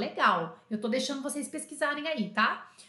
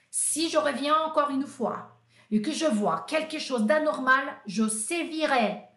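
mock threatening supervisor; 3 semitones higher, 3 dB louder than usual. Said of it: "Aí o Bouillon falou assim".

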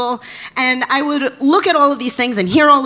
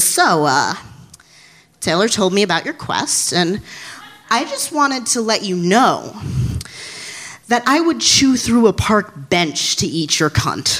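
low seductive redhead; 3 semitones lower than usual. Retold or imitated. Redhead propositions her up close.

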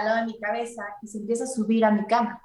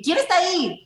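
scared call out; 8 semitones higher than usual. Retold or imitated. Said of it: "pero dije".

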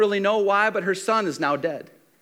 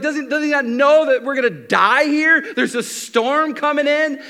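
higher-pitched mock panic; alarmed disciples; 5 semitones higher, 3 dB louder than usual. Disciples in the storm asking about sleeping Jesus, alarmed. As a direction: act out a frightened boatful of fishermen. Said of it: "They're afraid".

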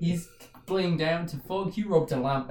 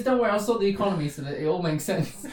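laughing through a genie line; 2 semitones higher, faster than usual. Retold or imitated. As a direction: giggle through the genie's promise. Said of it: "But he goes".

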